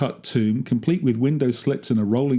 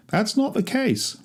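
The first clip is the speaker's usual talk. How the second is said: higher, slower, a lightly voiced rabbi; rabbi's reply; 11 semitones higher, slower than usual. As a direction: correct him gently as the rabbi. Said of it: "a rabbi once told me".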